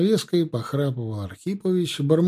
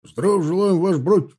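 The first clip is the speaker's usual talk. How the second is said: a loud, higher drilled chorus; thundered in unison; 6 semitones higher, 7 dB louder than usual. A narrator's reading. The ranks answering their officer, thundering in unison. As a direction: boom it out like a whole rank. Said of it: "слитно громыхнул строй".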